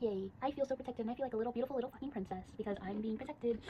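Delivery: high, gushing little-princess imitation; mock happy. Guy happy at being defended, mock gushing. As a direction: gush like a delighted, protected princess, mockingly. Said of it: "he would feel a little happy inside".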